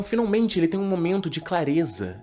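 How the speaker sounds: usual speaking voice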